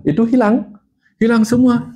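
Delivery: high-pitched, astonished announcement; retold amazement. Telling the audience the symptoms vanished, amazed. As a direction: lift it high as a marvelling reveal. Recounting symptoms suddenly all gone.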